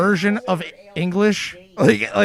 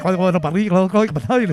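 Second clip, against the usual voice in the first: mock Scottish accent. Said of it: "that sounds absolute fluent Scottish".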